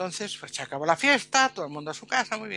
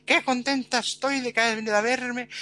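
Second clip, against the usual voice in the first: put-on higher, delighted old lady voice; delighted old granny; 5 semitones higher than usual. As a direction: gush like a thrilled great-aunt. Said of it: "Y la yaya cuando lo vio". (abuelita encantada, voz más aguda)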